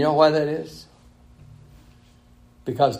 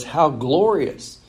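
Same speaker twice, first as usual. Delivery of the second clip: mild, drawn-out sarcasm; sarcastic; 3 semitones higher, slower than usual. Acted. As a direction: stretch it into understated mock praise. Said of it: "Can you hear the sarcasm".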